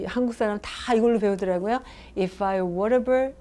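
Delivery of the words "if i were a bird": slow example phrase. Shown as a demonstration. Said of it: "약간 유치해요".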